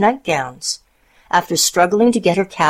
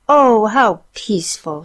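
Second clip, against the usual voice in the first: peaceful wonder; 5 semitones higher than usual. A narrator's reading. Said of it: "she thought".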